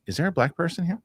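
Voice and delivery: Chit character voice. Retold or imitated. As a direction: mimic the comic's odd character asking the room. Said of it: "and he goes".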